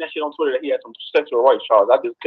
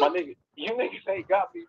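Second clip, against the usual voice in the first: pitched-up denial; high protest; 13 semitones higher, 6 dB quieter than usual. Real, not acted. Caller protesting to hosts, high denial. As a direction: laugh it off, insisting. Caller denies being caught.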